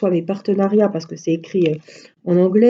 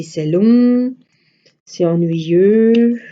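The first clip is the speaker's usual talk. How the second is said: put-on whiny child voice; 2 semitones higher, 4 dB louder, much slower than usual. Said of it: "elle dit à la maîtresse".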